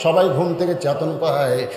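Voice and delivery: sing-song sermon storytelling with rising swells; melodic preaching. Acted. Preacher tells the crowd Bilal's story, melodic preaching. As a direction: stretch the phrase endings into a chant.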